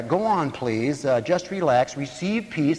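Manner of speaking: slow soothing counselor voice. Retold or imitated. Preacher imitating the counselor calming a patient, slow and soothing. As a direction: ease them down slowly. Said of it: "he said something like".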